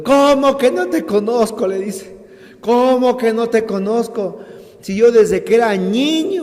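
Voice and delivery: high, loud indignant protest; angry retort. Retold or imitated. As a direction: hurl it back in outrage. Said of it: "con la misma ira le ha respondido".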